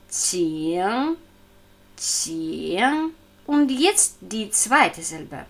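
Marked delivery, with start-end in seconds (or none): 0.1-3.1 "Qing" ringing on ng like a bell; resonant back N. Shown as a demonstration. Teacher showing the final consonant, bell-like ng in "Qing". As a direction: let the ng of "Qing" resonate, low then rising. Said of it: "So resonant wie der Klang einer Glocke".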